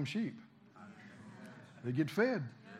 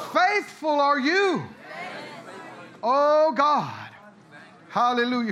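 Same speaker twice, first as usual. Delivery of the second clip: loud, high call to the congregation; full-force preaching; 7 semitones higher, 8 dB louder than usual. Acted. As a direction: rouse the room to stand and shout.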